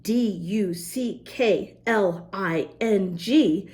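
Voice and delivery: D U C K L I N G named slowly; slow letter-by-letter spelling. Shown as a demonstration.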